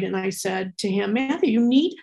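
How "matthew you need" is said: exasperated, higher-pitched nagging at a son; retold fed-up motherly insistence; annoyed mom. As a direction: press the point like an annoyed parent. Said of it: "I was getting really annoyed".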